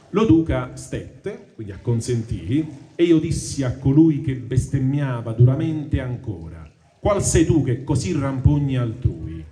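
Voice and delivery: slow, measured reading of Dante's verse; poem recitation. Acted. Teacher reading the Inferno to the class, measured recitation. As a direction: recite the tercets with weight.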